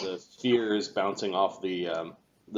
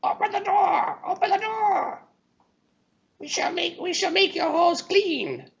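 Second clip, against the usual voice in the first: creature voice; 4 dB louder than usual. Acted. Kobolds shouting outside the door.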